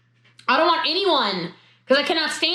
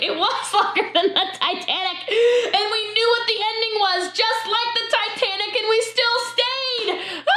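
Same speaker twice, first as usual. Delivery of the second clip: higher, laughing through the words; laughing hard; 8 semitones higher than usual. Real, not acted. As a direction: crack up as you tell it. Laughing at the long Zoom.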